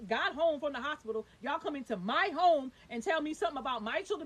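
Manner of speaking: heated, indignant retold protest; retold snapping. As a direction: protest in disbelief, hitting key words harder. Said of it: "I snapped out on this lady".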